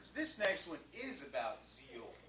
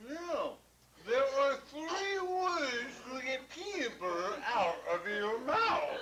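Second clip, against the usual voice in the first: laughing; 10 semitones higher, 6 dB louder than usual. Real, not acted. Laughing, voice breaking.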